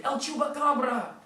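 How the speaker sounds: high, loud mock scream; retold scream. Family spotting the puppet in the cave, mock scream. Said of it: "One family screamed".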